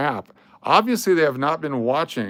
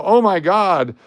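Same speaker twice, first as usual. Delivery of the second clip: over-the-top paid endorsement; fake hype; 4 semitones higher, 3 dB louder than usual. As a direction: gush like a sellout shill. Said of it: "you know I'm getting paid".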